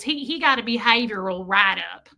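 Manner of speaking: mimicked country accent; imitated thick accent. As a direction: repeat it in the principal's country accent. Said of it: "I tend to mimic people exactly".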